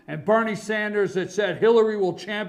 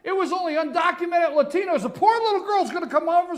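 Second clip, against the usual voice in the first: sarcastic outrage; 9 semitones higher than usual. Real, not acted.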